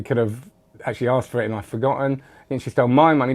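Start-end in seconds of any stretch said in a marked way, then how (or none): 2.2-3.3 MY stressed and falling. Shown as a demonstration. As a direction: lean on my, not someone else's. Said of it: "they stole someone else's money".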